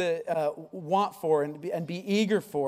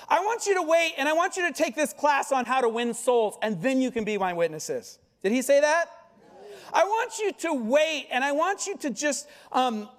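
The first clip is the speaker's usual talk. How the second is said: higher, hammed-up Jesus handing out homework; mock Jesus voice; 4 semitones higher than usual. Preacher mocking the church's delays, hammed-up Jesus voice. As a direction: lampoon a fussy Jesus who keeps adding chores.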